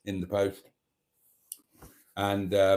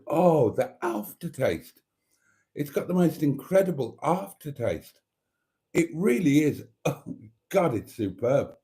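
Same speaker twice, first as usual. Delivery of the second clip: talking through a mouthful of butter; savouring while chewing; mouth full; 4 semitones higher than usual. Real, not acted. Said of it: "pardon me talking with my mouth full".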